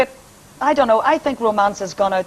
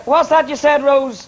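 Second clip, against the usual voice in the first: puzzled caller; 6 semitones higher, slower than usual. Retold or imitated. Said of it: "People just sort of say".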